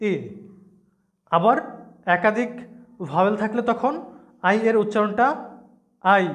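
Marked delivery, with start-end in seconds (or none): 0.1-0.1 ই said as a clear long ee sound; letter I as long ee. Shown as a demonstration. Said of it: "আই এর উচ্চারণটা হবে". 6.0-6.2 আই said as the diphthong eye; letter I as eye. Shown as a demonstration. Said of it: "এরকম করবে".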